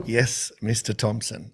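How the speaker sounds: hammed-up deference to the boss; mock obedient. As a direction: play the chastened junior coach. Mock obedience to strict mentor.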